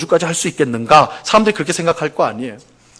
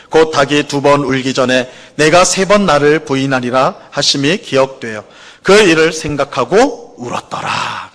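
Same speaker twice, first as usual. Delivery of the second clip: slow, measured congregational Bible reading; deliberate, evenly paced recitation of scripture; 3 semitones lower, slower than usual. Acted. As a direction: lead everyone in reading the verse aloud, firmly and slowly.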